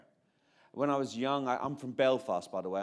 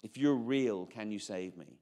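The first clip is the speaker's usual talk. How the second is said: desperate prayer; slower than usual. Retold or imitated. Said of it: "my prayer was this".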